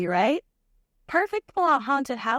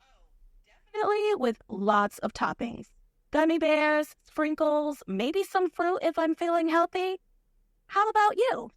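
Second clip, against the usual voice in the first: put-on Valley Girl accent. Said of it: "a Valley Girl accent".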